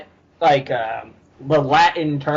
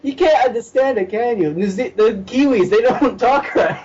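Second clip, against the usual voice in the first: laughing mockery; 4 semitones higher than usual. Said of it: "she's cracking up because she's like".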